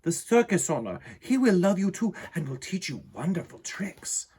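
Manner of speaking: put-on high, light girl's voice, fast at first; girl's tearful goodbye. A narrator's reading. Girl telling her lion goodbye, high and quick. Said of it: "she added with a tear".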